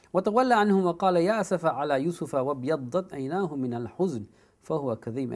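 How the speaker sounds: brisk chanted Arabic verse; rapid Quranic chant; Quran recitation. Acted. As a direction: recite the ayah in flowing tajweed.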